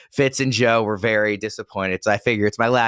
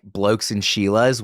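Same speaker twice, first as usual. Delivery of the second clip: Australian accent; slower than usual. Shown as a demonstration. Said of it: "It's hard to read a line like".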